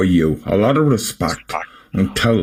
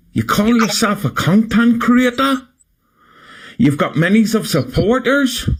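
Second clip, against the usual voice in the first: high, incredulous questions climbing at the end; indignant disbelief; 12 semitones higher than usual. Real, not acted. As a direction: challenge them, pitch soaring in disbelief. Scolding Speedo with indignant questions.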